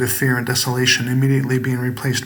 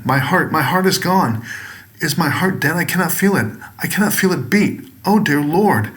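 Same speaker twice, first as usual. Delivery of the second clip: higher, frantic pleading in rising panic; a man terrified he has no heartbeat; terrified cry to the Lord; panicked; 4 semitones higher than usual. Acted. Man panics over his dead heart.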